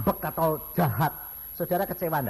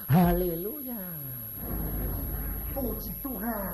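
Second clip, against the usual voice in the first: sample reply; 4 semitones higher, slower than usual. Shown as a demonstration. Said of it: "harusnya bilang apa".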